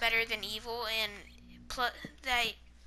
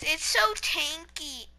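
tag-less imitation of Liam; 3 semitones higher, slower than usual. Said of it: "You know how Liam always says".

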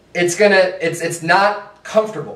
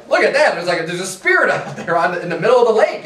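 mock frightened cry; faster than usual. Preacher imitates scared disciples on the boat, mock fright. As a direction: point out the spirit in mock alarm. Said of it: "they're just crying out 'cause they're afraid".

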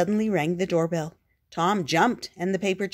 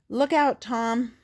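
higher and louder alarmed yell; urgent warning yell; 6 semitones higher, 7 dB louder, slower than usual. A narrator's reading. Spot yelling at Tom from the runaway sled, high and loud. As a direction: scream the warning as you hurtle down.

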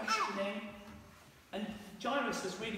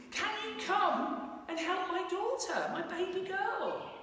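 pleading father; 9 semitones higher, 4 dB louder, slower than usual. Acted. Father begging Jesus for daughter.

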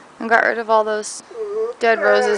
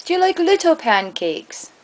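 higher voice on little; 7 semitones higher than usual. Pretend. Asking viewers about little pancakes, higher voice. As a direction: lift the voice for the little ones.

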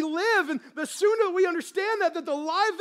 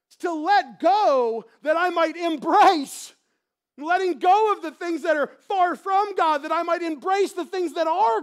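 louder, emphatic declaration; fervent preaching; 5 dB louder than usual. Acted. Pastor urges the congregation to repent, louder and fervent. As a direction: press the point home with force.

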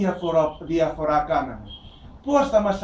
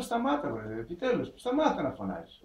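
higher, exasperated telling-off; disciples scolding; 4 semitones higher than usual. Retold or imitated. Preacher voicing disciples scolding the blind man, higher and exasperated. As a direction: scold him to stop shouting. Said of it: "οι μαθητές πήγαν και του είπαν".

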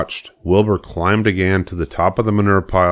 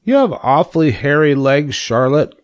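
high-pitched pig voice; pig character; 8 semitones higher, 3 dB louder than usual. A narrator's reading. Wilbur the pig to Charlotte about her legs, pig character voice. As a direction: play a curious little pig, pitched up. Young pig talking to the spider.

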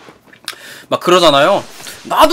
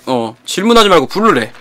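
usual speaking voice

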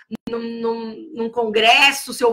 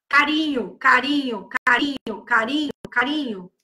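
lower, gentle coaxing chant; soothing repetition; 3 semitones lower than usual. Shown as a demonstration. Teacher modelling gentle touch for a small child, lower and soothing. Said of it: "foca no que é pra fazer".

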